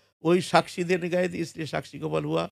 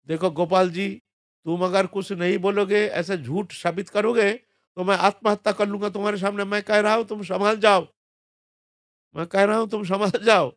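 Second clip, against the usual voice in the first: raised, urgent plea to the deity; pleading threat; 5 semitones higher, 3 dB louder than usual. Retold or imitated. Brahmin begging Gopal ji to come, urgent raised plea. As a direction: press him hard, voice rising.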